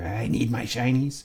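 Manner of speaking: slow, eerie creature voice; Golem voice. Retold or imitated. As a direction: croon it like a greedy cave creature. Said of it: "the Golem voice".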